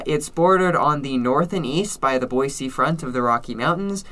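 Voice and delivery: normal talking voice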